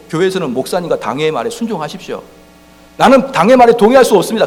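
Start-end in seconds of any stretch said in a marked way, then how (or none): 3.0-4.5 loud, higher protest; defiant church member. Retold or imitated. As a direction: object firmly like a stubborn member. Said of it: "그렇게 하지 마시란 말이에요".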